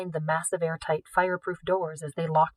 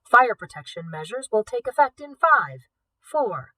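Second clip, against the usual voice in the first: mechanical voice; 4 semitones higher, 5 dB louder than usual. Acted. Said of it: "the mechanical voice".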